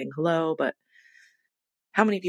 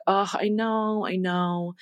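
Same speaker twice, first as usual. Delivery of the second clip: higher-pitched, sheepish admission; retold shame; 4 semitones higher, much slower than usual. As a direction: act out owning up, mildly ashamed. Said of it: "I hung my head in shame".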